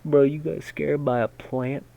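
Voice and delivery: loud, high teasing scoff; mocking disbelief. Real, not acted. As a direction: laugh at yourself loudly. Mocking self after fright.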